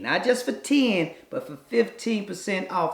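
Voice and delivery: ad read. Acted. Ad read at show start.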